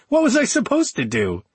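high giggly cackle; cackling. Acted. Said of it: "she cackled".

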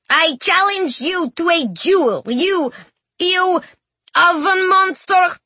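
high-pitched, faltering brave challenge; yelling over fear. A narrator's reading. Frightened boy challenging the monster, covering fear with yelling. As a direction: cry it out to hide the fear, halting on "you". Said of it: "yelled to cover his trembling voice".

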